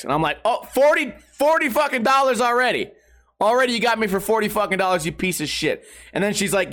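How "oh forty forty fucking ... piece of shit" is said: outraged rant. Retold or imitated. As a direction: spit out the price in disbelief. Outraged at added fees.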